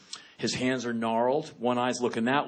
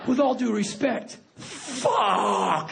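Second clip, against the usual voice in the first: stunned blurt; 10 semitones higher, much slower than usual. Retold or imitated. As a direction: blurt it out half laughing, stunned. Blurting at soldier's story.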